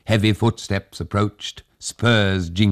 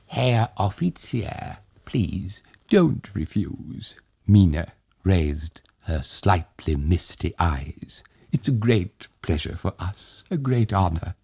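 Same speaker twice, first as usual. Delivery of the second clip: gracious plea. Acted. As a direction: beg him gently to stay. Mina pleading with officer.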